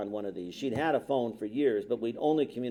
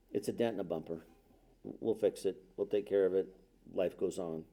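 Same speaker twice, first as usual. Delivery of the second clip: lower, softer fatherly reassurance; calm reassurance; 5 semitones lower, 5 dB quieter than usual. Retold or imitated. Father to daughter after her first accident, calm reassurance. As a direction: play it down, low and easy.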